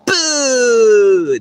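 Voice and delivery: high, loud sudden boo. Real, not acted. Yelling boo at pigeons on the roof, loud. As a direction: shout it out at the birds.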